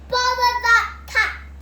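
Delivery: loud, high, slow fed-up cry; exasperated outburst. A narrator's reading. Missus Thomas annoyed at the cat, slow loud outburst. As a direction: drag it out in annoyance. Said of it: "Missus Thomas said".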